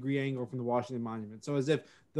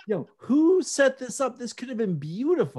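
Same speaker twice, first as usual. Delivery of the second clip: mock indignant; 9 semitones higher than usual. Mock outrage at map layout.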